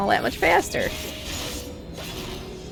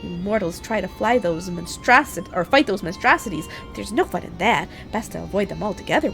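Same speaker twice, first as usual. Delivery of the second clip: high, teasing fairy voice; a light, giggly sprite talking down to a mortal; playful pixie voice; 3 semitones higher than usual. Acted. Reads pixie NPC dialogue aloud.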